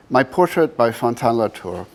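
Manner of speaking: measured reading in phrases set apart by pauses; poetry reading. Acted. Artist reads the poem at the book's first presentation, measured poetry reading. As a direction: read it as verse, leaning into each phrase opening.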